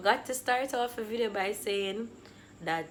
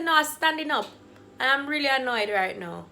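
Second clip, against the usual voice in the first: irritated retort, starting raised; moody annoyance; 4 semitones higher, 4 dB louder than usual. Retold or imitated. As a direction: retell a testy answer to mom. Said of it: "I'm in a mood".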